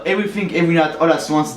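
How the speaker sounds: English title in a French accent. Real, not acted. French film fan announcing an English title, French accent. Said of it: "Désolé pour mon accent anglais".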